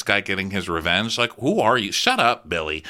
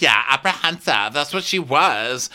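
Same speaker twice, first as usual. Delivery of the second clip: bitchy griping; 5 semitones higher than usual. Retold or imitated. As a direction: imitate a guest griping. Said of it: "he's bitching to Kyle".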